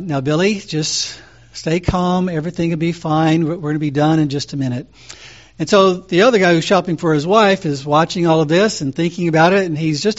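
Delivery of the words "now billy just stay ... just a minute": calm. Retold or imitated. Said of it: "the father is still saying".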